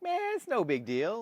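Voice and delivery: loud, high dude-bro; football bro voice. Retold or imitated. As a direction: toss it off like a jock buddy. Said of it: "all your football buddies would be like".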